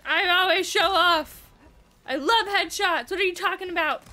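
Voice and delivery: loud, proud comeback; loud boastful retort. Real, not acted. Player answering Aloy's jibe about showing off, loud and boastful. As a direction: fire back loudly, showing off.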